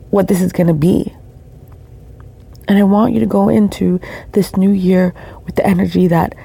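scratchy voice, just woke up; scratchy morning voice. Real, not acted. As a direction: talk with a scratchy morning throat. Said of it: "I'm sorry for my scratchy voice. I just woke up".

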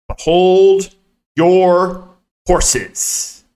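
mock dramatic announcer. Real, not acted. Bad luck jokingly building up.

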